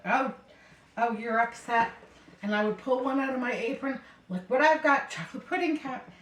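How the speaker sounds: distract her with cheerful surprise; sing-song treat offer to calm her; coaxing cheer. Retold or imitated. Soothing upset elder with treat.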